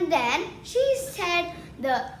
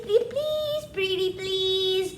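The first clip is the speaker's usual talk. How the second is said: squeaky pleading; slower than usual. Acted. Princess begs her mother.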